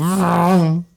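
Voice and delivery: imitated engine vroom; vocal vroom fading away; car speeding off. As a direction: make a car noise taking off. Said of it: "just takes off like".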